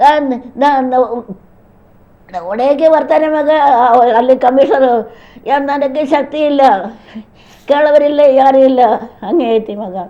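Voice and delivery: halting, tearful pleading with broken starts; real distress, words breaking off; crying. Real, not acted. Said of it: "ಅಳಬೇಡಿ".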